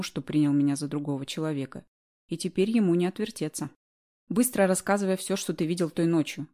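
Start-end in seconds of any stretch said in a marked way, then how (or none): 4.3-6.5 commanding. Acted. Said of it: "приказала я".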